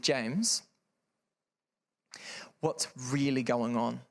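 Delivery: gently measured, with a long pause after the name; calm, empathetic. Retold or imitated. Mum to her troubled teenager after regulating herself, calm. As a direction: ask calmly, like a concerned mum. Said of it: "she said it calmly".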